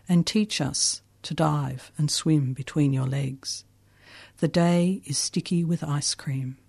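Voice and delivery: slow, hushed poetry reading; hushed raw poetry. Acted. Reads her poem aloud.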